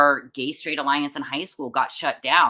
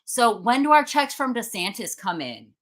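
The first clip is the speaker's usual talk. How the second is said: raised, higher voice, taunting out loud; loud mocking taunt; 12 semitones higher, 4 dB louder than usual. Taunting protesters aloud as she is escorted out, loud mock questions. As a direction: heckle them loudly on purpose. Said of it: "I was, like, loudly saying".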